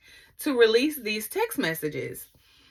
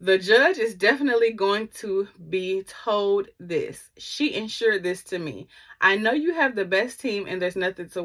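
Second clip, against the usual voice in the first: pointed rereading. Shown as a demonstration. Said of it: "let me go back and read the white privilege".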